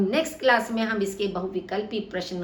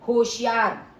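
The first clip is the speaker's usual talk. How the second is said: होशियार called out louder, falling at the end; warning shout; 5 dB louder than usual. Shown as a demonstration. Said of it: "चेतावनी बोधक". (होशियार चेतावनी भरे ऊँचे स्वर में)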